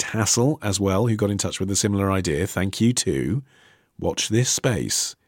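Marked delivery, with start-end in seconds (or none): 4.0-5.2 mysterious. Retold or imitated. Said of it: "strokes his beard mysteriously".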